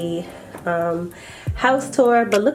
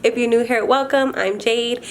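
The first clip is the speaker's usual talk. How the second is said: talking with a retainer in; slightly slurred retainer speech; wearing a retainer; 3 semitones higher than usual. Real, not acted. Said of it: "I have my retainers in".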